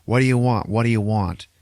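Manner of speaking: exasperated demon giving in; Dormammu. Retold or imitated. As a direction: cave in, fed up with the torment. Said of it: "And then Dormammu was like".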